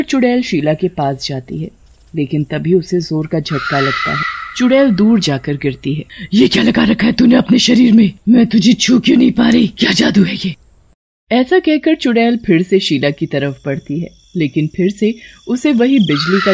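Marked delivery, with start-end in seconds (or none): 6.3-10.5 loud high startled witch; shocked witch. A narrator's reading. Witch is thrown back by the charm, shocked. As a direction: rage at the spell.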